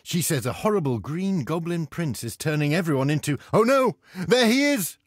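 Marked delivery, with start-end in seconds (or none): 3.5-5.0 surprised. Acted. Goblin prince appears.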